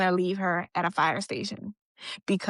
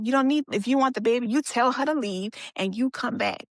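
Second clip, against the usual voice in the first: retold demand, higher and pressing; insistent demand; 4 semitones higher than usual. Boyfriend setting terms for the baby, retold insistently.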